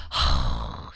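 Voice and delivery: heavy breathy sigh of a fed-up parent; exasperated sigh. Acted. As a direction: let out a long, acted sigh of frustration. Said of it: "막 열받아".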